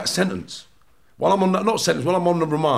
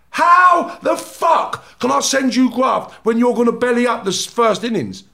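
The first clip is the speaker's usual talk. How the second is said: indignant shout; 4 semitones higher than usual. Retold or imitated. Ranting about grasses.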